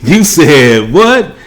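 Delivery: slow, high disbelief; drawn-out what in shock; incredulous. Retold or imitated. Mocking the husband's decisions.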